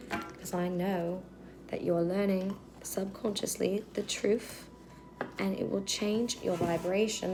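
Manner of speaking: slipping into a British accent. Real, not acted. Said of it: "talking in a British accent".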